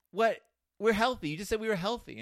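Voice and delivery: put-on high, loud protest as a child; indignant kids. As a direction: whine it like a wronged cub.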